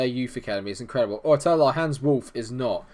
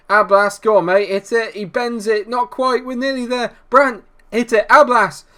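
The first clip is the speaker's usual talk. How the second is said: yelling higher and louder as the chance builds; excited shouting; 9 semitones higher, 8 dB louder than usual. Real, not acted. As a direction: urge the striker on at full volume. Live goal chance commentary.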